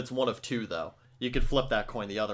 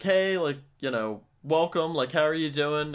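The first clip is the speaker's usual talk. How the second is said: cashier greeting; 3 semitones higher than usual. Shown as a demonstration. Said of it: "my usual pitch is going like".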